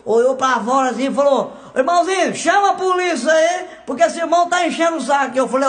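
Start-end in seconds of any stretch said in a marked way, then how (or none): 1.8-5.4 annoyed preacher. Retold or imitated. Pastor irritado chama a polícia.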